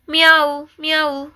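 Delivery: high-pitched kitten meows; small cat's high plaintive cry. Acted. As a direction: mew like a little cat crying. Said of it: "കുഞ്ഞി പൂച്ചയുടെ കരച്ചിലല്ലേ കേൾക്കുന്നത്".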